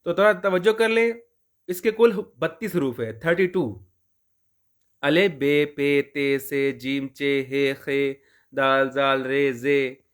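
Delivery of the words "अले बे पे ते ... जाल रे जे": slow, deliberate letter-by-letter recitation; reciting the alphabet. Shown as a demonstration. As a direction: spell out each letter slowly for the class. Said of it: "हम अलिफ बे पढ़ेंगे जी". (धीमे-धीमे हरूफ गिनाना)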